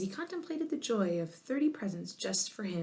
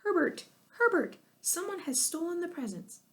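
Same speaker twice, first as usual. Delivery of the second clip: panicked yelling; 10 semitones higher than usual. A narrator's reading. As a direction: yell for her husband in panic. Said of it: "Missus Wonk yelled out".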